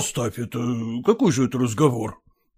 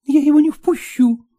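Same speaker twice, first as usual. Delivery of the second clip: whisper; 4 dB louder than usual. A narrator's reading. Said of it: "прибавила Василиса шёпотом".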